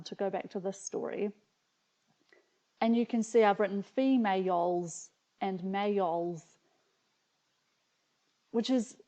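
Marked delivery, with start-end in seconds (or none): 3.8-6.4 females and males with a y glide; New Zealand vowels in males. Shown as a demonstration. Reader showing the accent in her childhood spelling, y glide in males. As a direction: stretch males into may-yols, y sounded. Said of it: "almost see the New Zealand accent coming out".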